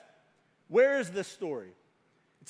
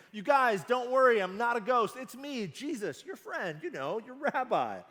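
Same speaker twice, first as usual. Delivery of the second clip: casual. Retold or imitated. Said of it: "like a casual, like, "It's me".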